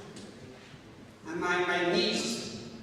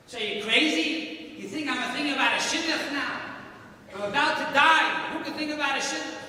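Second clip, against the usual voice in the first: higher and rising in disbelief, rushing the end; incredulous scoff; 5 semitones higher than usual. Retold or imitated. Dying prisoner scoffs at the voice, incredulous. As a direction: dismiss the idea as absurd, climbing.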